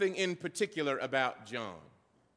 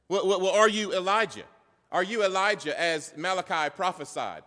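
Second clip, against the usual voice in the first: pressing interrogation; 4 semitones higher, 5 dB louder than usual. Acted. Acting out priests questioning John.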